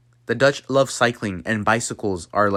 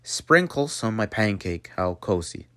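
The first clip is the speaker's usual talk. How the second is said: Dutch-accented English, sharp s in "sprinkles"; 4 dB quieter than usual. Shown as a demonstration. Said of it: "say that in the Dutch accent".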